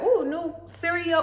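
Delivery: P=A; eager kid excitement. Retold or imitated. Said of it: "that day I was sold".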